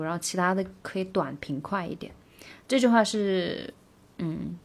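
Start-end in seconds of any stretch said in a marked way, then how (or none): 0.0-2.1 whisper. Real, not acted.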